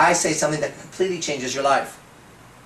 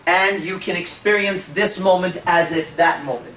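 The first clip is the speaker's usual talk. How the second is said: slow, deliberate hypnotic phrasing; slow hypnotic pattern; 2 semitones higher, slower than usual. Shown as a demonstration. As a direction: lay out the pattern gently. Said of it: "That's an exact pattern right there".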